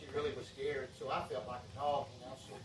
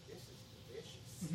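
put-on breathless, laughing little-girl voice; 9 dB quieter than usual. Grandpa imitating granddaughter praising her ice cream, laughing. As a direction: half-whisper it through a laugh. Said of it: "She said".

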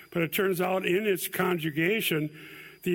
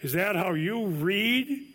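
ironic question; 3 semitones higher, slower than usual. Shown as a demonstration. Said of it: "ironic question".

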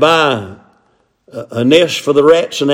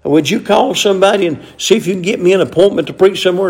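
whiny preacher; 5 semitones higher than usual. Retold or imitated. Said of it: "Used to hear a preacher said".

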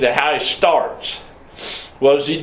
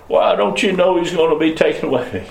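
pestering; 5 semitones higher than usual. Acted. Young preachers pester him with question.

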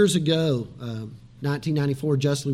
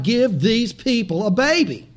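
retold cry to God, higher pitch; crying out in prayer; 4 semitones higher than usual. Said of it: "cried out to God".

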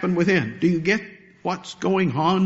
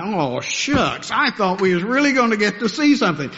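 mock letdown of the onlookers; a lightly voiced sigh of disappointment; disappointed crowd; 3 semitones higher than usual. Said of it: "I can almost hear a collective sigh".

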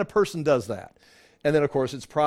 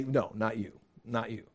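lower, much softer no, not you; quiet reassurance; 5 semitones lower, 11 dB quieter than usual. Retold or imitated. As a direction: soothe them softly. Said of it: "expecting Jesus to say".

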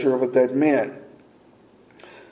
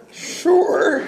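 laughing agreement; 12 semitones higher than usual. Retold or imitated. Agrees to airport ride, laughing.

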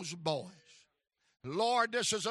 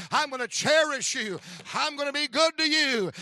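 building preacher shout; 3 dB louder than usual. Acted. Joseph speaks to his brothers.

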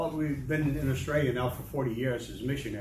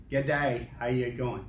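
attempted Australian accent; slower than usual. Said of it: "try to speak Australian to us".

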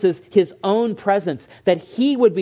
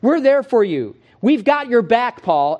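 supportive friends; 5 semitones higher, 4 dB louder than usual. Retold or imitated. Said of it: "co-workers would have said to Paul".

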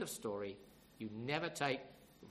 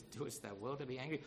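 lower, softer questioning of an angry man; the Lord questioning; 4 semitones lower, 5 dB quieter than usual. Retold or imitated. The Lord questions sulking Jonah, quiet question. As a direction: ask quietly, rising at the end. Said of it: "the Lord says".

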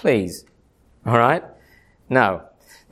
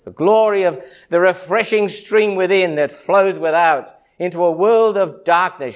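ordinary delivery

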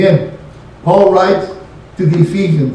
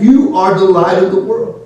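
YOU leaned on at the start; emphatic YOU. Shown as a demonstration. Preacher explaining the phrase, emphatic on YOU. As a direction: put the weight on YOU. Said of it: "it is emphatic".

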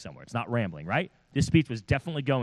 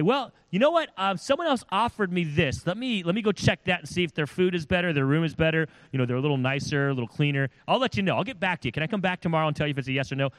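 high, whiny voice of a guest weighing offers; hammed-up fussy traveler; mock picky guest; 3 semitones higher, faster than usual. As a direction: mimic someone shopping for a better host. Mocking a picky missionary.

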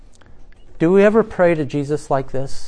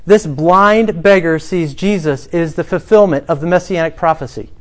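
ordinary delivery

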